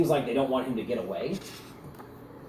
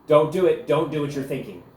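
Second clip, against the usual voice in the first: urgent pleading; 3 semitones higher, 5 dB louder than usual. Acted. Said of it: "she says".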